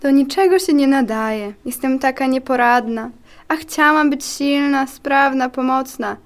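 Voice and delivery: sad monologue. Acted. Clumsy white cell after failing at training, sad. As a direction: lament your own uselessness, fading at the end. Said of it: "Ten smutny monolog".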